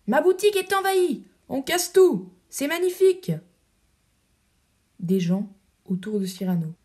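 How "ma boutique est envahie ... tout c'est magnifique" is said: loud, high, overjoyed cries; thrilled baker. Acted. Ragno on a table, delighted his shop is overrun. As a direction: crow with delight at the chaos.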